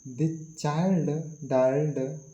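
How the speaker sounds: put-on "child" stretched out slowly; stress on child. Shown as a demonstration. Teacher shifting focus to the doer, stress on "child". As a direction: draw out "child" with firm emphasis. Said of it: "now our focus is on the child".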